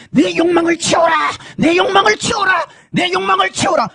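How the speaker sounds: high, shouted demonic command; monster's command. Retold or imitated. Evil spirit king commanding, high shouted roar. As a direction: roar it like a mad idol. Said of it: "계속 소리를 질러야만".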